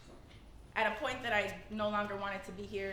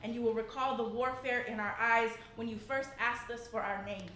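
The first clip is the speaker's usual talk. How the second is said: measured, rhythmic slam poetry delivery; spoken word poem. Acted. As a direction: recite it to the room with weight.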